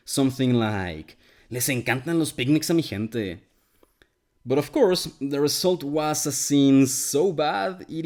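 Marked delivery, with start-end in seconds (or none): 1.5-3.4 imitating a forced northern Mexican accent; stiff, memorized northern Mexican accent. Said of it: "tried really hard to make a northern Mexican accent".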